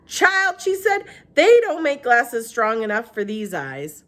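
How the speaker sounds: a hint of elderly Southern woman; old woman Gloria. A narrator's reading. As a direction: ask it like a kindly old lady. Gloria voiced by narrator.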